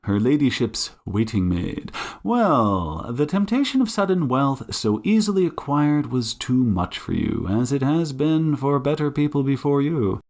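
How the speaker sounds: stern detective, lightly voiced; Sherlock Holmes. Detective laying out suspect's crime, mildly stern. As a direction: accuse with measured, pointed emphasis.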